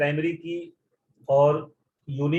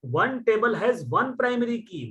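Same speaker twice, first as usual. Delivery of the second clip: One table has one primary key, slow and higher, each word weighted; slow emphatic rule; 5 semitones higher, much slower than usual. Shown as a demonstration. Teacher restating the rule to doubting students, slow and emphatic. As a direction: lay down the rule firmly and slowly. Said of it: "मैं आज भी कह रहा हूँ".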